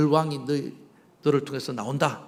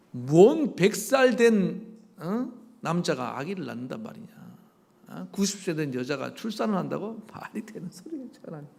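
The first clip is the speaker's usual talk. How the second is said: acted incredulity. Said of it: "그런데 어이가 없죠".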